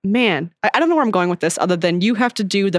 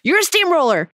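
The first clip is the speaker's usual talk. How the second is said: higher-pitched quoted outburst, easing down; Anne; 4 semitones higher than usual. Retold or imitated. Best friend confronting her steamrolling friend, mock accusation. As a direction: imitate an exasperated best friend, lightly acted. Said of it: "her best friend Anne goes".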